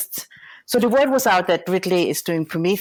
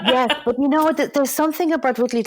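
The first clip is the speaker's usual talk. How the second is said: laughing; 9 semitones higher, 5 dB louder than usual. Real, not acted. Laughing answer to host.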